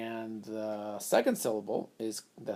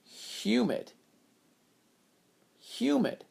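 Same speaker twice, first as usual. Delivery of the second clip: blended word; 11 semitones higher, slower than usual. Shown as a demonstration. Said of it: "So let's read each syllable".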